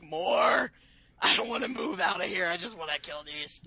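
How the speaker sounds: a dainty little lady voice. Retold or imitated. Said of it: "your dainty lady voice there".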